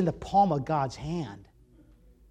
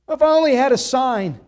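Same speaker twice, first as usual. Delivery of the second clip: high, loud mocking imitation; mock plea; 6 semitones higher, 9 dB louder than usual. Preacher imitating people who demand a sign, mock pleading. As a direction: throw the excuse out in a raised, loud mock voice. Mocking doubters' excuse quoted earlier.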